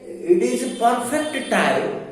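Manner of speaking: "perfect" drawn out slowly for emphasis; slow down and lean on "perfect"; stress on PERFECT. Shown as a demonstration. Teacher giving an example sentence, slow emphasis on "perfect". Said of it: "they are giving emphasis on the noun".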